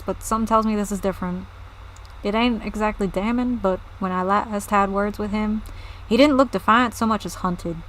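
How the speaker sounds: lightly southern villager, measured delivery; southern accent. Acted. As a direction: confide your worry in a mild southern accent. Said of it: "I'm just giving them southern accents".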